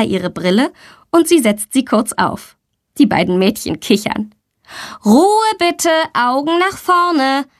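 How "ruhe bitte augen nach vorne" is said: a teacher hushing her class, slow and firm; stern teacher. A narrator's reading. Teacher hushing two giggling girls, stern and slow. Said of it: "ermahnt sie die Lehrerin".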